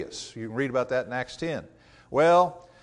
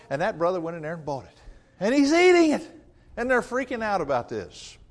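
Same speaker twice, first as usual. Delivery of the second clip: higher, louder gossip, scandalized; gossiping scandalized Christian; 6 semitones higher, 4 dB louder than usual. Acted. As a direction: tattle on the brother in mock outrage. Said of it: "I can just imagine some of the Christians".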